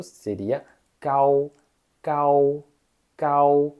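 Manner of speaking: cal with a plain hard k, no breath; unaspirated gao. Shown as a demonstration. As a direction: say cal like Portuguese c. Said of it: "como se fosse C mesmo".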